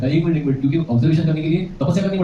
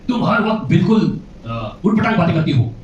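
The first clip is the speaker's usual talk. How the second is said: quarrel accusation; 4 semitones higher than usual. Retold or imitated. Husband acts out a quarrel, accusing his wife in a raised voice. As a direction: blame her like in a fight. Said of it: "ये ऐसे होता है कभी-कभी झगड़े में".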